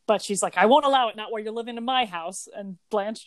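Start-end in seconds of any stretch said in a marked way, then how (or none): 0.6-2.5 mock-indignant quote, higher and louder at first; mad Sophia. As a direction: imitate a mildly outraged scolding. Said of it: "Sophia is mad at Dorothy".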